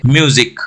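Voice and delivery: म्यूजिक with the u said as 'you'; 'you' vowel. Shown as a demonstration. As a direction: put a clear 'you' inside म्यूजिक. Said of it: "Y O यू की तरह pronounce होगा". (म्यूजिक में 'यू' की आवाज़)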